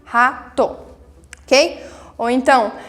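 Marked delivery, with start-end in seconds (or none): 0.0-0.8 "Rato" broken into ra, to; two distinct beats, ra-to, for "Rato"; syllable by syllable. Shown as a demonstration. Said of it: "tem duas sílabas".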